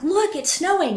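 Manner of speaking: a little boy pointing out the snow, half-mimicked; excited kid. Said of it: "he's excited being a kid".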